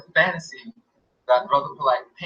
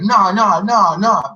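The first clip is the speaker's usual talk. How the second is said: loud, higher mock refusal nah nah; loud dismissive no; 5 semitones higher, 7 dB louder, slower than usual. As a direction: wave it off loudly, half-imitating him. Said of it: "he was like".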